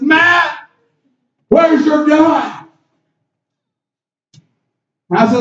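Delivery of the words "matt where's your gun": retold holler, higher and slow at the end; mom hollering. Mother hollering from the camper, a retold call. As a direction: call out across the yard like a worried mother. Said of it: "my mom hollers and she says".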